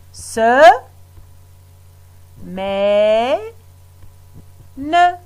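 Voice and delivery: "Se, mais, ne" said as three separate beats with pauses; syllable by syllable. Shown as a demonstration. Teacher splitting semaine into syllables for the pupils, beat by beat. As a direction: chop the word into its syllables. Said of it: "Trois syllabes".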